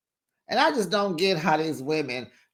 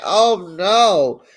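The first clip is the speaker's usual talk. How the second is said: mock horror; 7 dB louder, much slower than usual. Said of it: "I'm like".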